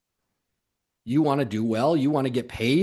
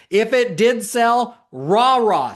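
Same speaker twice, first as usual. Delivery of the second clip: louder, higher little rah-rah; mock cheer; 7 semitones higher, 6 dB louder, much slower than usual. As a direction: play the cheerleader for a moment. Cheering the salesperson on.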